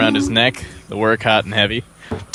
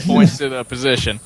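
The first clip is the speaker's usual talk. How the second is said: ordinary delivery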